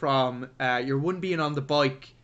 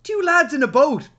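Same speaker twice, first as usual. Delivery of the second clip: louder, higher, incredulous rant; exasperated outburst; 4 semitones higher, 6 dB louder than usual. Retold or imitated. Viewer ranting at the film's absurd boat men, loud exasperation. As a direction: build to a disbelieving peak. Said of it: "it's like, yeah, it's like".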